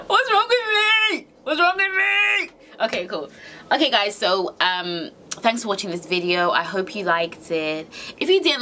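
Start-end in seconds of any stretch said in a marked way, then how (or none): 0.1-2.5 higher and slower, half laughing at herself; giggly disbelief. Real, not acted. Vlogger giggling after cursing on camera, high and slow. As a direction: laugh it out, amused at yourself.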